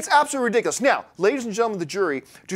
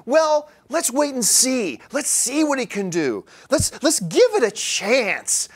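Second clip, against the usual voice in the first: mocking opponent; 3 semitones higher, slower than usual. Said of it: "may bring up the argument".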